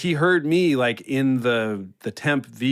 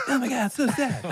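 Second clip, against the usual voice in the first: high, giddy voice saying sad words; Fallon at a funeral. Retold or imitated. Audition bit, Fallon at a funeral, high and cheery. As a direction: chirp grief like an upbeat Fallon. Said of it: "Jimmy Fallon at a funeral".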